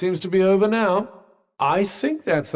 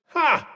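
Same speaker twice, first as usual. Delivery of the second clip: triumphant "Ha!"; 10 semitones higher than usual. Acted. Crowing over a downed foe.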